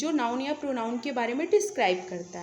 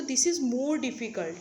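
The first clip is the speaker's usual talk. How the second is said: slow example sentence; much slower than usual. Shown as a demonstration. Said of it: "comparative में convert करेंगे तो".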